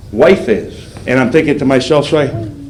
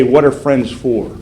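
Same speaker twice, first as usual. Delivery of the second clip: slow reading of the card; slower than usual. Retold or imitated. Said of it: "It would just say".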